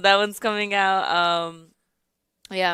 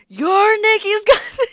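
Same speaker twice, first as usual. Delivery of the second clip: retold surprise; 12 semitones higher, 6 dB louder, slower than usual. Coworker's surprise, retold laughing.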